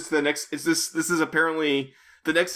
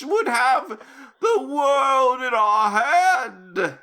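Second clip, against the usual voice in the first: very high, drawn-out, hammed-up speech; loud theatrical high voice, stretching the final words; villain leader voice; 11 semitones higher, 3 dB louder, slower than usual. Leader addressing his virus experts, hammed-up high character voice. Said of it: "I'm gonna do the voice for this".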